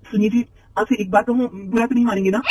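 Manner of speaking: put-on hesitant young wife asking permission. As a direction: ask nervously, as if afraid to offend. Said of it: "झिझकते हुए".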